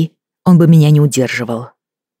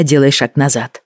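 usual speaking voice

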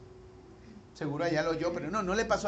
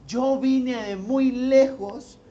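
mild retold indignation; 4 semitones higher, 6 dB louder, much slower than usual. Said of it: "el indígena se enojaba y le decía".

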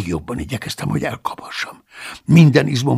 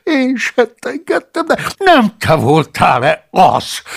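louder, slow, indignant question; rising voice; 10 semitones higher, 6 dB louder, slower than usual. Acted. Paulus questioning the monk, voice rising. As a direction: let the voice climb. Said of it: "kérdeztem egyre emelkedő hangon".

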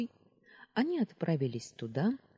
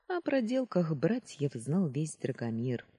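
ordinary delivery, nothing marked

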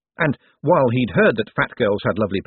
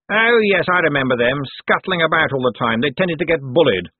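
higher, airy employer's voice; condescending master; 5 semitones higher, 3 dB louder than usual. A narrator's reading. Master reminiscing to his henchman about scholarship boys, condescending. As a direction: play the patronising boss, pitched up.

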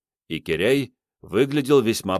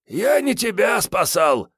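grumbled retort; 12 semitones higher, 4 dB louder than usual. Acted. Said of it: "буркнул Киряй".

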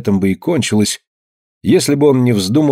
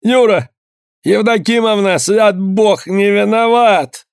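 much higher, begging cry; desperate pleading; 10 semitones higher, slower than usual. A narrator's reading. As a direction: plead for your life, close to tears. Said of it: "Он заплакал".

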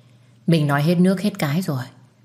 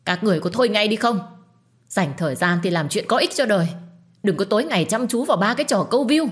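higher, fast rebuke at the crowd; stern shout; 5 semitones higher than usual. Acted. Narrator telling off the crowd filming, stern shout. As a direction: scold the gawkers and stop them. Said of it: "Tôi bước đến và quát to".

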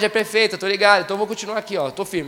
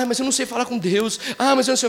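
mock whiny excuse; 3 semitones higher, faster than usual. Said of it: "Você não precisa falar".

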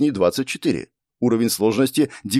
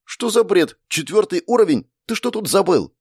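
put-on higher girl's voice, puzzled and annoyed; the blonde demands answers, frowning; young woman suddenly suspicious, higher voice; 9 semitones higher than usual. A narrator's reading. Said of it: "неожиданно нахмурилась".

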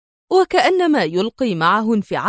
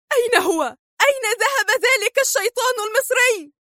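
high, bitter demanding cry; 13 semitones higher than usual. A narrator's reading. Sonia crying out bitterly for the Egyptian devil. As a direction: hurl the question out in bitterness. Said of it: "وصرخت في مرارة".

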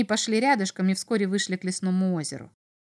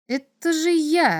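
high, slow, louder astonished exclamation; stunned surprise; 7 semitones higher, 5 dB louder, slower than usual. A narrator's reading. Boy recognises his own face in the sand, stunned. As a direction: draw it out, taken aback. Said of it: "опешил Максим".

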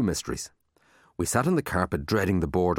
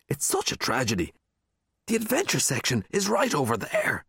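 sly Marty; 7 semitones higher than usual. A narrator's reading. Marty coaxes his friend toward the adventure books, sly rising voice. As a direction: pitch climbs high on over there.

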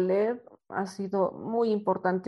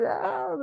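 retold sob; 12 semitones higher than usual. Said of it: "me puse a llorar".

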